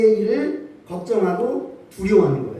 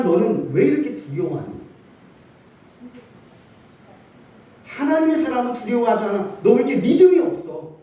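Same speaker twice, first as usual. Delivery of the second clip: a higher-pitched mock scolding, not meant; mock rebuke; 5 semitones higher than usual. Preacher voicing the rebuke God does not give, mock scolding. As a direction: play a stern God rebuking doubters, half in jest. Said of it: "라고 책망하시는 말씀이 아닙니다".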